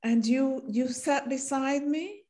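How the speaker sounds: high, quick teasing questions; playful reminder. Retold or imitated. Woman teasing old schoolmate about sitting close, playful. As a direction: tease him about the school bench.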